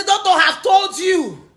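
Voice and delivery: hammed-up shouted imitation; mock shout.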